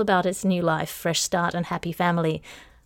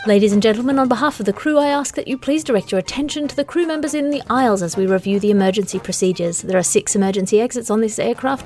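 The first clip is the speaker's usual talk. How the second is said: calm cabin safety announcement; flight attendant. Acted. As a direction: read it like an in-flight PA. Airline safety briefing parody.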